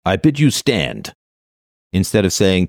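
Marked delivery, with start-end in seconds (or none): 0.0-1.1 epic hero line. Acted. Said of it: "say this".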